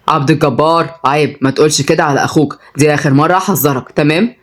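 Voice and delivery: low, controlled warning; stern Oday figure. Acted. Voices Oday warning the boy. (تحذير هادي بصوت واطي)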